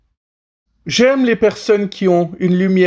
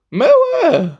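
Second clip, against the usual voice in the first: rock star shout; 4 dB louder than usual. Acted. Shouted rocker exclamation.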